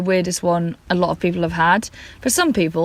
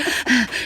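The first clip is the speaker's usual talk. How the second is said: a panting gasp for air; breathless gasp; 4 semitones higher than usual. Retold or imitated. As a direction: gasp like you ran in from the car. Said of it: "heaving shoulders, panting".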